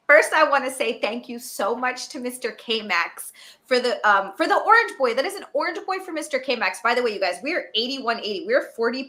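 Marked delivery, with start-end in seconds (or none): 0.1-6.8 lightly done robot voice. Pretend. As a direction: read the thanks like a robot. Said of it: "in my robot voice".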